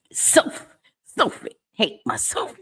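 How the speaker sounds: excited, stumbling greeting; excited stumble. Real, not acted. Streamer greeting a regular viewer, excited. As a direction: trip over the name in excitement. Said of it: "I get excited".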